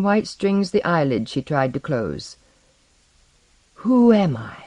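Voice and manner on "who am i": higher-pitched, forceful demand. Acted. Masked figure confronting the suffocating young king, demanding. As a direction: press the question on her.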